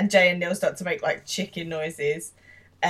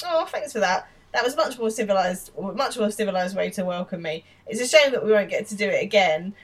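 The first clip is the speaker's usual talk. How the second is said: sarcastic thanks; 3 semitones higher, 4 dB louder than usual. Retold or imitated. Will's sarcastic thanks retold.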